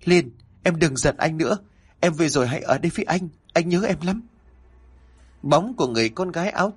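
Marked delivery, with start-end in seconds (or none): 0.0-4.2 high pleading call across the yard; higher pleading call; calling loudly. A narrator's reading. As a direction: call after her, begging her to stay. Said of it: "mà gọi lớn".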